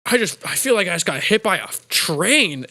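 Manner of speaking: lightly acted aching bewilderment; dazed boss. Smacked boss telling Adam Sandler, mildly dazed. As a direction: stagger through it, mock-hurt. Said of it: "And he's like".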